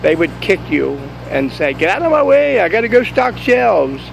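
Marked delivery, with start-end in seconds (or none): 1.7-4.0 high, loud, snapping at the person on the ground; rude store clerk. Pretend. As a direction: shove past them in a rush to stock shelves. Aldi's employee kicks you, says.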